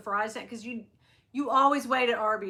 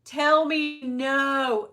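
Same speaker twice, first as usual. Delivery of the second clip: freaking out; 3 semitones higher, 10 dB louder, much slower than usual. Retold or imitated. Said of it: "I am freaking out".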